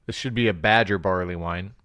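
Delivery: tipsy, lips gone numb. Real, not acted. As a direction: talk through numb lips. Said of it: "I can't even talk right now".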